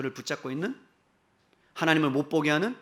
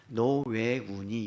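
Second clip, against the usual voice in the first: gentle rebuke; 2 semitones lower, much slower than usual. Acted. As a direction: chide her tenderly, drawing the words out. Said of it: "예수님의 부드러운 책망의 말씀이에요". (부드럽게 책망하듯)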